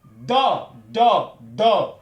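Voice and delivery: "Do" voiced from the throat; throat sound. Shown as a demonstration. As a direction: model the "Do" from deep in the throat. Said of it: "on utilise la gorge".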